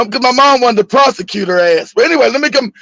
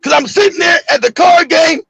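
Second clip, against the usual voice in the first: high, mock-outraged mother; hollering; 5 semitones higher than usual. Mom recounts the card game to her son, hollering. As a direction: imitate a mother's high-pitched rant.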